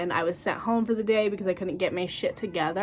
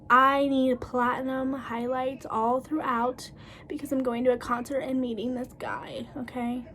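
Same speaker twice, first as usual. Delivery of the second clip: demanding client; 3 semitones higher, 4 dB quieter than usual. Retold or imitated.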